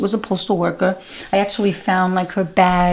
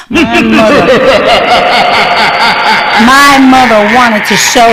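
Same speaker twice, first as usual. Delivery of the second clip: talking through laughter; laughing; 2 semitones higher, 9 dB louder than usual. Real, not acted. Comic telling the crowd about her mother, laughing. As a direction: laugh while you tell it.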